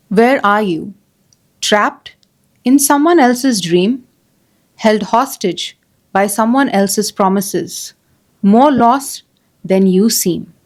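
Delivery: measured poem reading with long pauses between phrases; unhurried, deliberate verse reading; poem recitation. Acted. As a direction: recite it line by line, letting each phrase hang. Reads a poem aloud.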